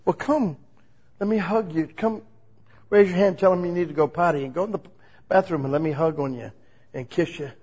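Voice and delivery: put-on a touch of fatherly God comforting a hurt child; tender God. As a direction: coax them gently into a hug. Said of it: "God, they just hurt me".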